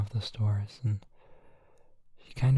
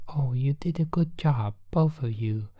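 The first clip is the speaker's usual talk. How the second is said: bright, higher whispered praise; cheerful Goo; 4 semitones higher than usual. Acted. Goo whispering praise to both heroes, higher and bright. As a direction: praise them like a proud little creature. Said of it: "Goo says".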